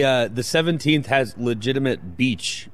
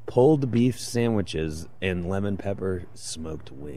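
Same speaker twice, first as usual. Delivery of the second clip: hushed golf announcer voice; golf commentator. Pretend. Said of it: "why are we using that voice today".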